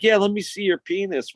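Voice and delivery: high, lightly voiced sleazy man; a hint of a creepy man's coaxing; creepy stranger voice. A stranger pressing the boys, mildly creepy.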